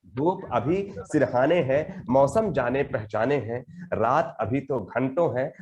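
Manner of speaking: slow, rhythmic poetry reading; poem recitation. Acted. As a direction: recite each line with measured weight.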